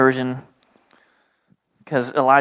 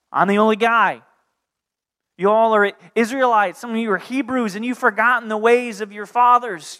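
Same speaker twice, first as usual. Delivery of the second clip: raised, urgent preacher's voice as Elijah; impassioned preaching; 8 semitones higher than usual. Acted. Prophet Elijah urging the Israelites, passionate preaching. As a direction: plead with the crowd like a prophet.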